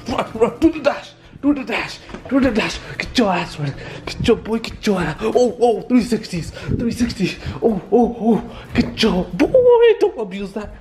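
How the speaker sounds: high, playful hype for a running dog; excited egging-on. Real, not acted. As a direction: cheer on the zoomies. Egging on dog's zoomies.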